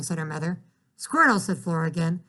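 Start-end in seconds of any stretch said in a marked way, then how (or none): 1.0-1.4 reading aloud. Acted. Flora reads silly word again.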